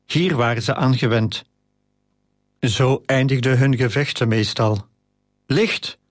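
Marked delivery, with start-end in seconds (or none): 5.5-6.0 a short, high command, bellow only suggested; brullen. A narrator's reading. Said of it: "brulde Achilles". (ingehouden brul, hoog van toon)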